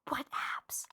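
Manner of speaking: baffled whisper; whispered disbelief. Real, not acted. Player puzzled by the alien's abs, incredulous whisper. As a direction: drop to a whispered aside. Baffled aside at game's description.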